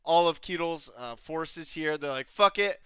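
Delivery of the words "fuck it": loud, raised comic call; mock panicked shout. Ketel's forces abandoning the battlefield, mock shout to flee. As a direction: call out a hammed-up rout. Voicing fleeing troops in retelling.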